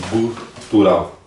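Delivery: "gutural" drawn out slowly to define it; slow teaching. Shown as a demonstration. Teacher explaining the word gutural, slow and drawn out. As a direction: stretch "gutural" for the class. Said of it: "ele vem mais da garganta".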